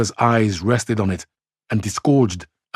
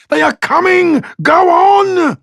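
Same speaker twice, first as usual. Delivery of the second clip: urgent; 8 dB louder, slower than usual. A narrator's reading. Crowd panics, Martians coming.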